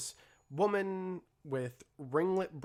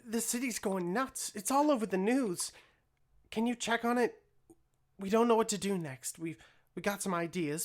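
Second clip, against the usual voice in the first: put-on much higher, louder anxious girl voice; worried Mixie; 8 semitones higher, 3 dB louder than usual. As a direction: blurt the news in a panicky rush. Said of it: "Mixie look down to you and say".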